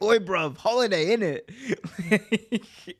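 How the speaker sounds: hammed-up Cockney; mock Cockney. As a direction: answer like a cheeky London lad. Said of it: "I'm like".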